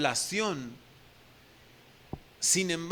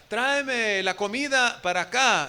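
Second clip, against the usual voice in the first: slow, slightly raised call from a room; mild mock call; 4 semitones higher, 4 dB louder, slower than usual. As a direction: call out slowly toward the next room. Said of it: "desde allá le grita". (llamado lento y un poco alzado)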